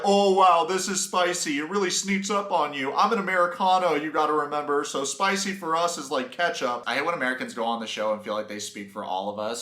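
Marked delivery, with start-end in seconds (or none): 0.0-6.8 loud, high mock impression of a spice-shocked American; imitating Ben. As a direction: mimic an overwhelmed man, raised and loud. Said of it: "Ben saying stuff like".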